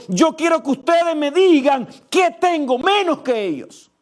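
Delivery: high, loud, driving sermon voice; fervent preaching. Acted. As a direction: preach it out to the whole church. Preaching at full force.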